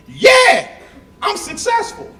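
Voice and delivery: high laughing yeah; high laughing brag; laughing boast. Real, not acted. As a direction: crow it through a laugh. Laughing self-affirmation.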